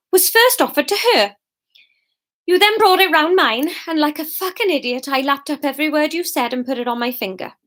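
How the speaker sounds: controlled hurt rising to anger; wronged Fiona. Acted. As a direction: confront the fiancé, indignation building. Voices Fiona confronting Norman.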